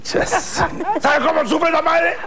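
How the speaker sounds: mock lament. Lamento exagerado de chiste.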